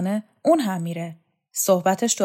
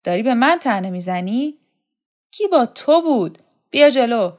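threatening challenge; 5 semitones higher, 8 dB louder than usual. Acted. Shokat threatens Kokab.

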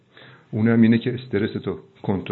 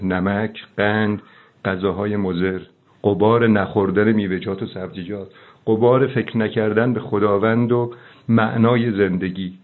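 preaching. Acted. Host preaches to the guest about the dust on his mind. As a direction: preach it, hammering each item.

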